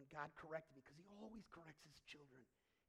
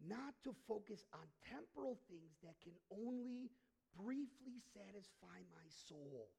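normal talking voice

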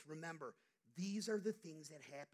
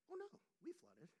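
a hint of a breezy wife, pitched higher; cheerful wife; 10 semitones higher than usual. Husband voicing wife cheerfully reporting the flood. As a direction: lightly imitate her chirpy bad news. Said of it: "Why are you so cheerful?".

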